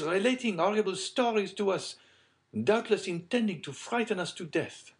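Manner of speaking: high-pitched lady's voice; high and playful challenge; smiling lady. Acted. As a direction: tease them in a high, ladylike voice. Plays Madame de Villefort accusing the count.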